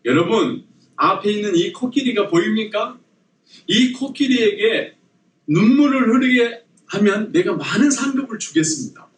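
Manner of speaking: high, projected host announcement; contest host. Acted. Host offering tourists a prize for tears, high announcer's call. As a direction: call out a challenge to the crowd. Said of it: "이런 질문을 하더라고요".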